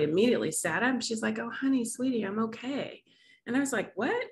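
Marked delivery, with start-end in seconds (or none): 1.4-3.0 retold reassurance. Voicing mother reassuring her crying daughter. 4.0-4.2 retold disbelief. Retold disbelief at mother's sudden recovery.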